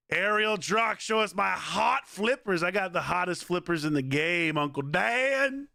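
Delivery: slow, high showy boast; mock bragging. Streamer hamming up bragging about his flippers. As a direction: show off playfully.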